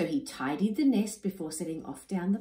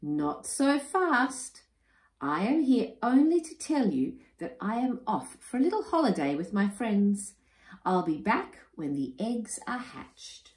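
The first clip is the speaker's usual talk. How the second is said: breezy wife; 5 semitones higher than usual. Acted. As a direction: stretch out the refusal. Wilhelmina leaves for holiday.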